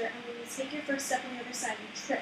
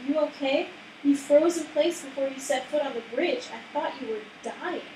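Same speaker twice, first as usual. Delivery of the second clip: worried caretaker; 2 semitones higher, 5 dB louder than usual. Acted. Caretaker Eustace asks worriedly.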